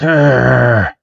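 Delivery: drawn-out frustrated arr; acted grunt of irritation; mock angry growl. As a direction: growl at your rival. Red reacts angrily.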